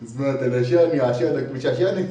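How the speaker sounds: repeating تلاشاني عشانك مش عشاني through amusement; amused repeating. Acted. Father mocking son's phrase, amused. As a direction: savour the phrase as if it were a joke. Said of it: "تصدق حلوة يا ولا؟".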